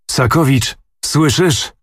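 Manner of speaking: menacing bark at his man, rising high; terrible voice. A narrator's reading. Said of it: "ozwał się strasznym głosem". (groźny, podniesiony głos)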